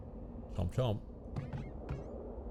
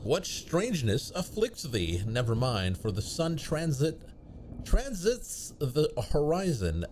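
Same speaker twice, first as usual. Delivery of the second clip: put-on old-fashioned speech. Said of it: "When did you start talking like this?".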